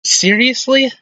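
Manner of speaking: high squeak of disbelief; can't believe what you saw; shocked laughter. Real, not acted. Disbelief after own goal.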